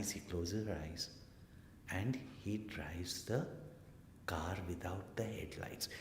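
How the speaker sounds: whispered storytelling hush; suspense whisper. A narrator's reading. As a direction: drop to a whisper to build suspense. Suspense in the dark drive.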